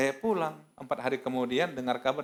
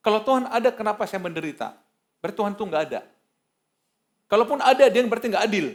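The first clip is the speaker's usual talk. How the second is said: mild mock yelling; half-raised voice of complaint; retold ranting at God; 7 semitones higher, 6 dB louder, faster than usual. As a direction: imitate a sick person protesting to God. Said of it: "Dia teriak-teriak kata".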